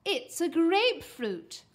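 loud, slow, high presenting voice; proud announcement. A narrator's reading. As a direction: stretch it out like a grand reveal. Mum proudly presents the fruit.

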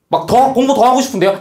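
high-pitched mock eager student.

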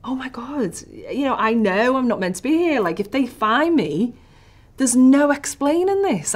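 hushed dread swelling into alarm; panicked inner thought. Retold or imitated. Hiding from armed guards, whisper building to panic. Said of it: "And I'm thinking".

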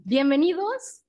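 high, laughing greeting. Real, not acted. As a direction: laugh through the welcome. Laughing welcome to the audience.

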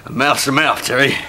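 low, quiet suggestive voice; low seductive come-on. Acted. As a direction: purr it suggestively. Lewd suggestion to Terry.

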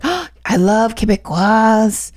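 lightly mimicked delighted gush, drawn out; retold delight. Tailor thrilled to meet a Quebecois link, mock delight. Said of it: "she was like".

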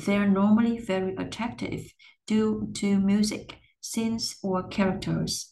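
rising on "music", falling on "characters"; list intonation. Shown as a demonstration. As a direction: read the list rising then falling at the end. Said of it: "mình sẽ đọc là". (lên giọng ở "music", xuống giọng ở "characters")

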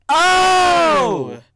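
high startled oh; shocked gasp. Acted. Gasp at the wound.

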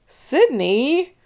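loud rising call of a name; shouting. Acted. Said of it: "we shouted".

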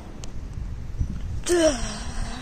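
a tired puffing exhale; mock panting breath. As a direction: puff out air after the race. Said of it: "I'm out of breath".

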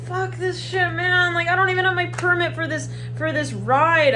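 high, exasperated little-creature voice; nervous mouse. Acted. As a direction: grumble it as a panicking mouse.

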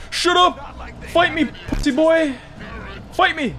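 high-pitched combative shouting; fighting challenge. Pretend. Player challenging the game enemy, high mock-angry shout. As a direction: yell it high, daring him on.

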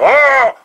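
loud startled "Ah" yell, pitched high; deep-voiced scream. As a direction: yell it out like a grown man getting a fright. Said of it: "I've always screamed with a really deep voice".

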